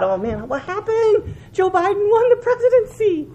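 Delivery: high, crying mock lament; whiny fake sob; mock wailing. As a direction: ham up the despair over the election. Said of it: "mocking panicked believers".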